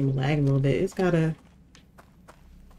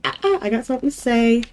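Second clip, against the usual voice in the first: mock ghost voice; 6 semitones higher, 5 dB louder than usual. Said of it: "they're like".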